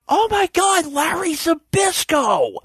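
very high, imitated fan excitement; hammed-up thrilled recognition; starstruck exclamation. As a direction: gush in mock awe, drawing out the name. Boyfriend recognizes famous wrestler.

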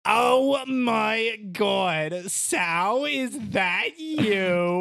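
slow, drawn-out swooning voice; Gladys voice. Pretend. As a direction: answer the phone as a smitten lady. Voices Gladys answering the phone.

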